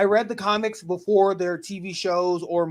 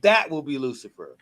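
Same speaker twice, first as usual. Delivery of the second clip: lightly imitated posh British; a hint of posh British, mock actor musing; posh British accent; 5 semitones lower than usual. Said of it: "let me do a posh British accent".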